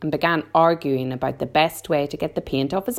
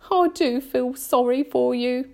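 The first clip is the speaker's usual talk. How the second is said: gentle pity, higher than narration; sympathetic murmur; 8 semitones higher than usual. A narrator's reading. Miss Spider feels sorry for the centipede, murmuring. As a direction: commiserate tenderly. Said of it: "she murmured".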